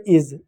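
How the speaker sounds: "इज" with a short i and a z sound. Shown as a demonstration. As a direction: keep "इज" short, ending on z. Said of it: "आई से ई हो गया". ("इज" में छोटी इ, फिर ज़)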